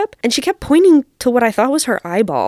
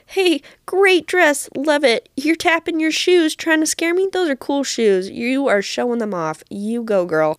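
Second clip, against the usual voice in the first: cheerful; 5 semitones higher than usual. Retold or imitated. Complimenting the scarers cheerfully.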